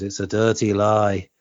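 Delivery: put-on slow quote in a sixties Liverpool accent; lightly imitated broad sixties Scouse. Fan quoting a singer at the press conference, sixties Liverpool accent. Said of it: "it's that sixties Liverpool accent".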